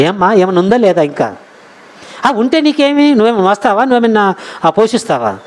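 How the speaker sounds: imitating nosy, needling neighbours; petty taunting. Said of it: "ఎంత చిల్లిగా మాట్లాడుతుంటారండి". (చులకనగా దెప్పిపొడిచే అనుకరణ)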